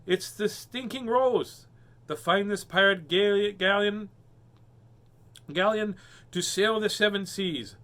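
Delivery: slow, high storybook amazement; excited exclamation. A narrator's reading. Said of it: "exclaimed Henry".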